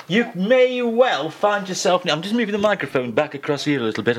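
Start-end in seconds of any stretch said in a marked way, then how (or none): 0.1-2.0 sexy voice. Pretend. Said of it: "I'm sounding too sexy".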